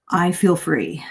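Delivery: whispered with relief; hushed, relieved whisper; breathy relieved whisper. Retold or imitated. Student's relieved words, whispered.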